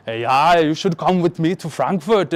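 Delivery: put-on half-hearted German accent, a bit Arnold; attempted German accent. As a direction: try a German accent and not quite get it. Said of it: "I can't do a German accent".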